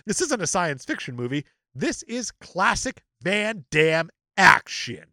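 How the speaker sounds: emphatic, slowing to a punchy finish; dramatic review read. Acted. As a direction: read it out, landing the last words slowly. Reads an online review aloud.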